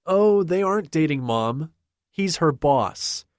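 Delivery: put-on high, bright girlish voice; a light high girl's voice; bubbly young woman. A narrator's reading. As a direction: play the chirpy daughter setting mom straight. Kaylee voiced high, helpful.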